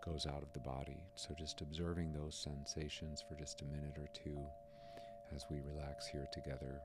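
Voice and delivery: hushed-down, calm meditation guide; relaxed, understated meditation voice; guided meditation. Acted. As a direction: talk listeners gently through body sensations. Leads a meditation on sensations.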